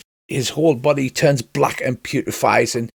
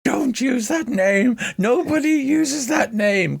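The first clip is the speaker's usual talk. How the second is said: high, drawn-out protest; indignant character voice; 11 semitones higher, slower than usual. Acted. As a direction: object slowly in a high put-on voice. Game master voices indignant Derek.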